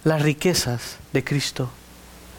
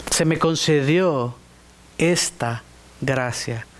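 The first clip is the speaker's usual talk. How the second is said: slow humble confession; 4 semitones lower, slower than usual. Retold or imitated. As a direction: let "Se me concedió esta gracia" sink in slowly and low. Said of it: "Él reconoce".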